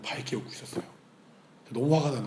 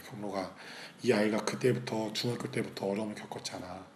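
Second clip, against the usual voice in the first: God speaking gently; 3 dB quieter than usual. Retold or imitated. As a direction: reason with him quietly and patiently. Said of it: "하나님이 저한테 그렇게 말씀해 주셨어요". (조용히 타이르는 하나님 음성)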